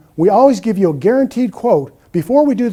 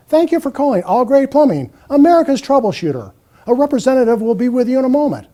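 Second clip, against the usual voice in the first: higher, polished recorded greeting, a bit fast; professional woman's voice; 4 semitones higher than usual. Retold or imitated. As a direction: read it like a hired voice-over artist. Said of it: "A woman's voice".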